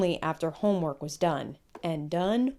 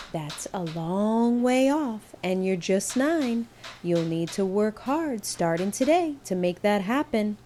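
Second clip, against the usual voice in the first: gentle mom; 2 semitones higher than usual. Acted. Mother gently answering son.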